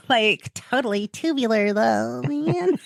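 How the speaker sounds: a lightly voiced California surfer drawl; mock surfer dude. Joking to her co-host in a light mock surfer voice. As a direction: toss it off like a laid-back surfer, tongue in cheek.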